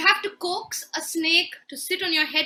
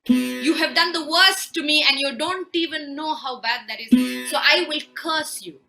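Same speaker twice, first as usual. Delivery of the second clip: louder furious cursing; angry curse; 7 dB louder than usual. Acted. Husband cursing and banishing his wife, angrily. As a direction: hurl the curse at her. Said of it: "He loses it".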